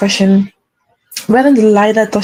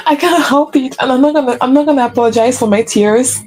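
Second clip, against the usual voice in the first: tearful; 3 semitones higher than usual. Real, not acted. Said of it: "I'm getting emotional".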